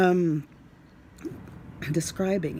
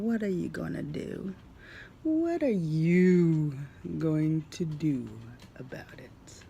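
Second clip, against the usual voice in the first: mocking. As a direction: drag it out as a taunt.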